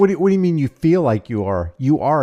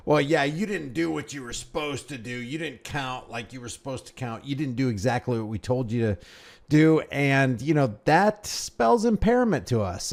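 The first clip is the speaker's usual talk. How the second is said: mock cop voice; 5 dB quieter than usual. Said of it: "they're gonna make up".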